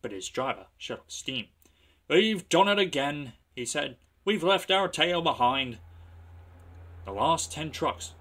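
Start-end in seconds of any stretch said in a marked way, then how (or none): 2.1-3.3 dismayed driver. Acted. 4.2-5.8 dismayed driver. Acted.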